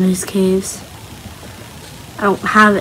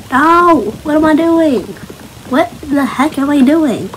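frustrated outcry; 6 semitones higher than usual. Real, not acted. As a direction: cry out at your own mistake. Misplaced block, frustrated.

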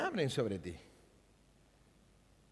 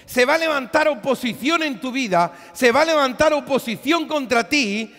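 louder, higher exhortation; fiery preaching; 4 semitones higher, 8 dB louder than usual. Acted. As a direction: rouse the congregation past opposition. Preaching at full force.

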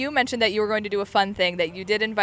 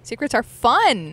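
playful drawn-out; 4 semitones higher, 7 dB louder, slower than usual. Pretend. Playful teasing after whispers.

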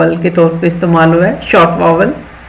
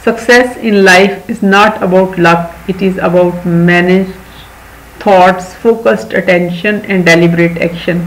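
very slow, word by word; slow reading; much slower than usual. Shown as a demonstration. Teacher reading a motto to children, very slow. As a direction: read it out slowly for children. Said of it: "teacher reads English quote slowly".

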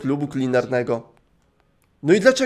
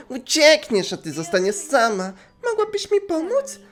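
lightly raised gentle voice; higher friend voice; 6 semitones higher than usual. Acted. Friend advising Osana, slightly higher. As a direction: speak kindly as the caring friend.

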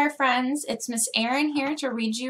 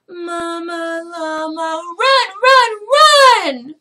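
high, loud frantic cry for mom; desperate calling out; 7 semitones higher, 14 dB louder, much slower than usual. Acted. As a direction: call for mama as if terrified. Baby llama calls desperately for mama.

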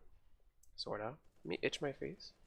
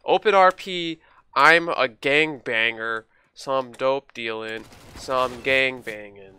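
role-play gangbanger; 8 dB louder, slower than usual. Pretend. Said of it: "I'm role-playing right now".

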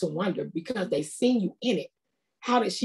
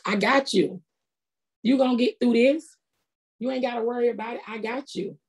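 higher, casual God talking like a close buddy; God like a friend; 5 semitones higher than usual. Retold or imitated. God talking to her like one of her friends, higher and casual. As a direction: toss it off quick and easy, like reassuring a friend. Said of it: "he talked to me like I'm talking to one of my, my friends".

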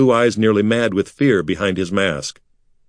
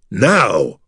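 shout; 3 dB louder than usual. Acted. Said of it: "Artek shouted".

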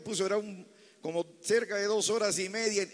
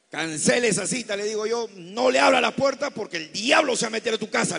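loud, emphatic retold order; urgent warning; 2 semitones higher, 6 dB louder than usual. Pastor warning a new member about a visitor, urgent warning. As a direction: raise the voice to forbid it.

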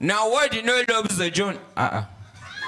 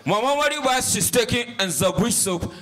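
put-on child reciting; 4 semitones higher than usual. Final recitation attempt.

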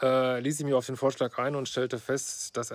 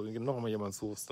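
usual speaking voice

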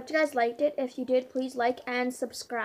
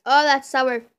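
sour reaction; 11 dB louder than usual. Real, not acted. Reacting to sour candy taste.

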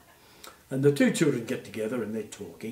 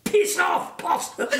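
put-on very high, loud little kid's shout; cheeky child yelling; 8 dB louder, slower than usual. One child heckling the possum puppet, squeaky loud yell. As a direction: yell it like a brazen little kid. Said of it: "this one little voice came over".

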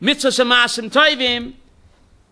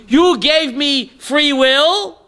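put-on defiant kid; 4 semitones higher than usual. Adam defying God like a rebellious kid, mildly defiant. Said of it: "a rebellious kid talks like that".

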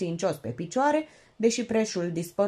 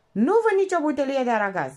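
parrot voice; 7 semitones higher, 5 dB louder, faster than usual. Acted. Parrot repeating.

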